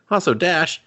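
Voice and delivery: a mock yell at a robot bartender; mock shout at screen. Yelling at the movie.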